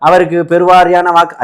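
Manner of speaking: lightly mimicked canvasser appeal; mock a rehearsed appeal for votes; campaign announcer. Host mocks rehearsed vote appeal, campaign announcer. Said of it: "அதே மாதிரியே training எடுத்த மாதிரியே பேசுறீங்களே".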